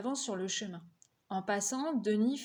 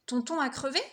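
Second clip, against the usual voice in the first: a lightly raised call across the road; mild call out; 4 semitones higher, 4 dB louder than usual. Acted. Boy calling to his brother from his bike, mildly raised. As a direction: call ahead to him while riding. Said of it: "Je crie à Alex".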